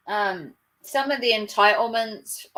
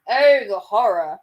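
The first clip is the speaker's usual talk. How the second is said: louder, hammed-up dismay; mock horror; 6 dB louder than usual. Mocking Karens buying kids ice cream, mock horror. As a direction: play at being appalled.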